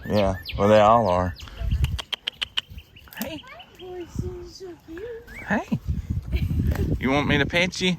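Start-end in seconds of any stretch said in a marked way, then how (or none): 3.2-7.9 high pet-talk voice. Real, not acted. Coaxing the horse.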